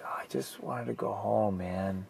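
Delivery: whispered, drained, under the breath; exhausted whispered sigh of a line; weary whisper. Retold or imitated. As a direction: breathe it out like all the fight is gone. Weary quote to himself in canyon.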